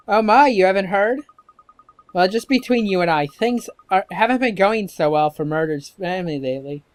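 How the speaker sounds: put-on old neighbour sharing a confidence, emphatic; scandalised old gossip; gossipy old woman.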